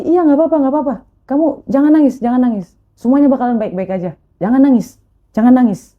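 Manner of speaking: a hint of a fatherly bystander; imitated consoling man. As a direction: repeat it as firm reassurance. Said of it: "ada bapak-bapak yang bilang".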